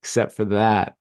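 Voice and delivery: a man on the couch before his partner's loving gaze, squirming; squirming refusal. Retold or imitated. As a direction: lightly act out wanting to escape.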